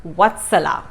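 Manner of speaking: Vatsala with a clear TS in the middle; TS sound demo. Shown as a demonstration. Passing on what my teacher taught me, TS in Vatsala. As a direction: let the TS of Vatsala stand out. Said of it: "So the T S pronunciation".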